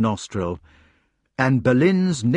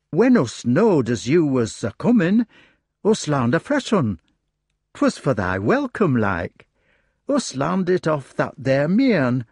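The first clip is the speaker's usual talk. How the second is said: eager rustic hedgehog; 4 semitones higher than usual. Acted. Hedgehog eagerly explains new song.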